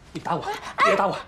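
high, fast frantic pleading; high frantic plea, hit me. Acted. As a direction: beg her to hit you instead. Husband begging his wife.

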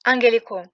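"angelico" with ng and a hard g; pronunciation demo. Shown as a demonstration. Teacher showing learners a Greek word, "angelico" with hard ng. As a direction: sound the nasal before g in "angelico". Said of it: "ce mot se prononce angelico".

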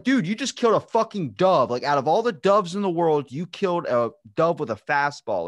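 high, loud mock outrage easing toward the end; freaking out. Imitating the crowd scolding the pitcher, freaking out. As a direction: scold him in hammed-up disbelief. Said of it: "freaking out".

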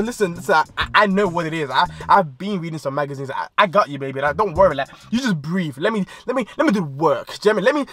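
hushed smooth-talker calm; mock soothing. Him calming his nervous girlfriend, soft mock reassurance.

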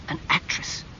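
hushed, voiceless exclamation of disbelief; shocked cry. A narrator's reading. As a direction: gasp it softly, aghast. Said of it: "he had cried".

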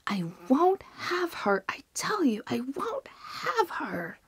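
as loud as he could. A narrator's reading. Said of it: "at the top of his voice as loud as he could".

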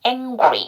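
"angry" with N as an ng sound; model pronunciation. Shown as a demonstration. Teacher showing Korean learners how it sounds, model pronunciation. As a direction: say "angry" as eng-gu-ri, ending in ee. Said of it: "이렇게 발음 나야 돼요".

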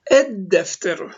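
"Ed-defteru" with a held double D; no L in the article, double the D in "Ed-defteru"; silent lam, doubled D. Shown as a demonstration. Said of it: "dal harfi şeddeli okunuyor".

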